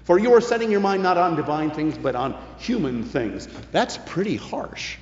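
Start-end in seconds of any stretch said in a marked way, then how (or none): 0.0-3.5 retort. Retold or imitated. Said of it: "when he retorted".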